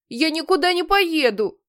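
high, pushed mock yell; yell with all his might. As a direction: bellow the refusal. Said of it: "заорал Генри изо всех сил".

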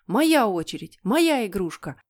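put-on loud childish claim; insistent shout. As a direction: shout it as a squabbling kid. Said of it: "хором закричали Питер и Генри". (настойчивый детский крик)

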